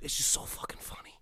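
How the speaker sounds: whispered under breath; just breathe it out. Real, not acted. Friend whispering how funny the show is.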